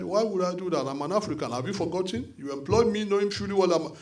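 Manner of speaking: lightly voiced impression of Jagaban; mild imitation of the politician; imitating Jagaban. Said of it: "you know how he talks".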